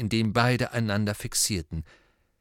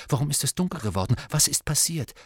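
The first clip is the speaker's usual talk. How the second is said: eager; 5 semitones higher, faster than usual. Acted. Harry urgently asking.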